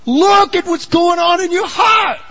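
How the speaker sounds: high, loud shout of the name, then a slow, urgent plea; God calling out. Acted. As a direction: cry out to Jonah from above. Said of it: "what the Lord's trying to say".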